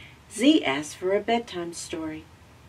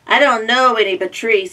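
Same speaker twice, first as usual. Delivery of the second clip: higher, loud, fast crow caw; 5 semitones higher, 11 dB louder, faster than usual. Acted. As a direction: rattle it off like a crow. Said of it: "said the crow".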